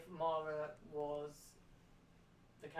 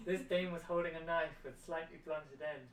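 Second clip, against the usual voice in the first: noir detective. Pretend. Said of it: "I wrote it in a noir style".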